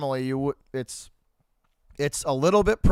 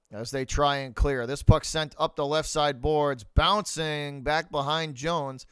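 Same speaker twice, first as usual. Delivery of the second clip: hockey commentator calling the action; play-by-play call. Acted. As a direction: call the puck movement like a broadcast.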